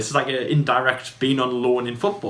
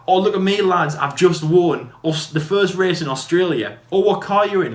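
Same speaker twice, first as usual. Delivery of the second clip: higher, louder show-off to mates; mock boasting; 5 semitones higher, 3 dB louder than usual. Bragging to the lads about winning in Australia, mock boast. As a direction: play up a bragging race winner.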